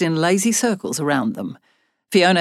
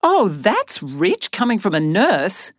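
shooting back; 2 semitones higher, slower than usual. Acted. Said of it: "Annabel shot back".

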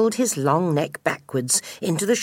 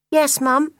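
put-on high, childlike voice; piping youngster's reply; young gosling; 10 semitones higher, 4 dB louder than usual. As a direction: answer mum as an obedient little gosling. Gosling answers his mother.

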